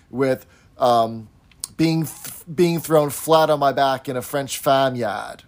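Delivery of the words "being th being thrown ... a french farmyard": imitating an actress's unconvincing Boston accent; attempted Boston accent. Host imitating an actress's line from the show, attempted Boston accent. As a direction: mimic a stab at Boston on "farmyard". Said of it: "Charlotte Rae attempts a Boston accent".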